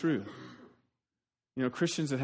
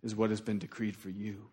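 voice of God; 5 semitones lower, 6 dB quieter than usual. Retold or imitated. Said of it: "and said".

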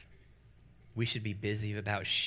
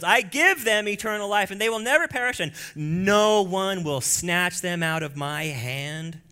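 quoting Jesus boldly; 6 semitones higher, 7 dB louder than usual. Retold or imitated. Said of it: "Jesus goes".

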